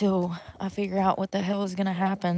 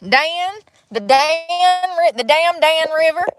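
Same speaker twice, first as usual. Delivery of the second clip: playful excitement; 8 semitones higher, 7 dB louder, slower than usual. Real, not acted. Joking pun on river name.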